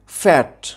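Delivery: ফ্যাট said in a single beat; one syllable. Shown as a demonstration. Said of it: "আমরা একবারে উচ্চারণ করছি". (ফ্যাট একবারে উচ্চারণ)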